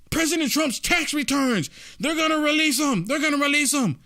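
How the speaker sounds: mock alarm. Commentator mimicking media fuss over tax returns, mock alarm. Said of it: "They're acting like".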